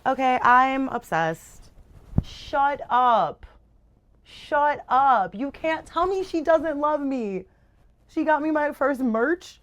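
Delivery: high, slow gushing; overwhelmed with delight; excited gushing. Real, not acted. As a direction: gush like you can't contain it. Gushing over gift.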